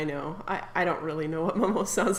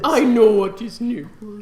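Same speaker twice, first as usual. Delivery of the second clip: put-on slow, louder whiny accent; whiny French lady; 8 dB louder than usual.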